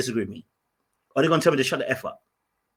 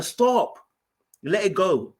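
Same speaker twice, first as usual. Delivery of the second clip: urgent retold stop; 3 semitones higher, much slower than usual. Urging friend to stop arguing.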